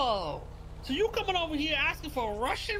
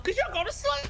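triumphant yell; 11 semitones higher than usual. Real, not acted. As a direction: shout it out in victory. Killing shout in game.

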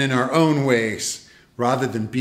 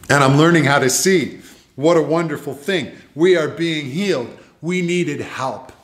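joyful proclamation; 4 semitones higher, 4 dB louder than usual. Real, not acted. Preacher rejoicing at healing.

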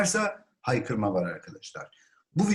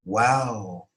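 slow, lower-pitched wow; amazement; 3 semitones lower than usual. Shown as a demonstration. Teacher models seeing something astonishing, amazed. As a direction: draw WOW out in awe. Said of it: "Çok böyle hayretlik".

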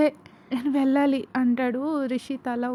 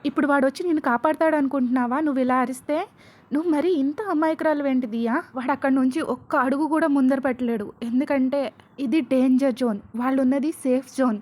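louder, jealous tirade; angry rant; 5 dB louder than usual. Acted. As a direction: keep the rage up. Enraged kidnapper ranting at Diya.

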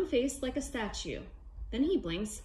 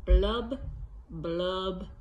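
three fish blubs, each one lower; fish blub sounds; 5 semitones lower, much slower than usual. Acted. Reading to kids, fish blubs sinking lower. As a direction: blow the blubs out like a fish's bubbles. Fish's refrain read to kids.

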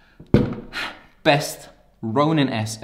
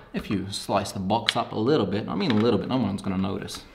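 out of breath. Real, not acted. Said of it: "I'm still out of breath".

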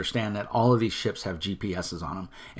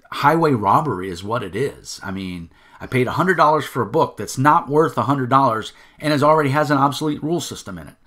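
louder, heated complaint at a stiffed backer; angry customer venting, louder and rising; angry rant; 3 semitones higher, 6 dB louder than usual. Real, not acted. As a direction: let the outrage build and spill out fast. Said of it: "sorry for the angry rant".

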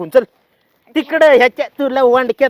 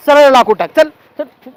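barked command, louder; angry order; 3 semitones higher, 6 dB louder than usual. Acted. Husband ordering wife to stack wood, angry shout. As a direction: snap at her to stack it straight.

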